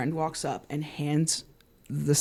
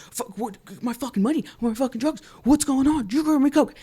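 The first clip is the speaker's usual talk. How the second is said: high-pitched, imitated outrage; mock yelling; 8 semitones higher than usual. Imitating Pat demanding money and drugs, mock yell. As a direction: rant up high without full volume. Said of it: "he starts yelling".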